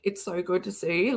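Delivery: mean every word, gently; sincere greeting. Real, not acted. Streamer telling a viewer she missed them, softly sincere. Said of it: "I didn't get to say, like".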